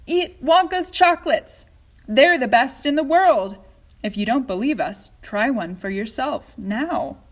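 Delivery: high, loud hammed-up ad announcer; commercial voice. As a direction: sell it like a TV advert. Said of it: "a voice will say".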